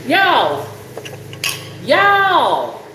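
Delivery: calling out. Real, not acted. Calling viewers' attention.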